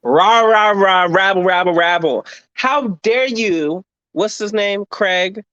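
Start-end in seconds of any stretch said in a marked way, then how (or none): 0.0-2.2 mock angry rabble. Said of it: "I am mad". 2.5-3.8 drawn-out outrage, each word slow; slow indignant how dare you. Acted. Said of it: "I am mad".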